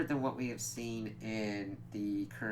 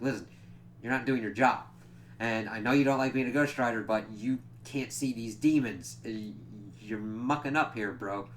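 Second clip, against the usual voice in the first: berating; 4 dB louder than usual. Retold or imitated. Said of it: "Johnny is just berating Danny".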